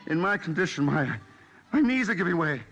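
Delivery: hammed-up sick man. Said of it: "either play acting or he is ill".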